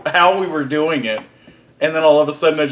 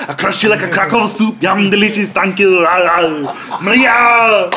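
Arnold voice. Pretend. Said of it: "when Arnold comes in here".

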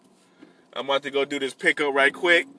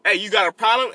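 mock barking; 5 semitones higher than usual. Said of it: "I'm barking".

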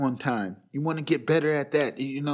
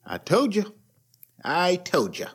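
smug I told you so; 3 semitones higher than usual. Retold or imitated. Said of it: "at least I'd be like".

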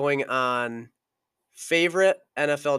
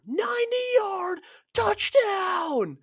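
much higher, slow whisper right in the ear; whispered taunt; much slower than usual. Retold or imitated. Quarterback taunts the opponent who helped him up, whispering. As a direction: hiss the gloat into his ear. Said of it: "he just right in his ear".

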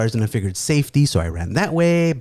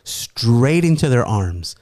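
incredulous reproach; slower than usual. Retold or imitated. Cousin's stunned reproach.

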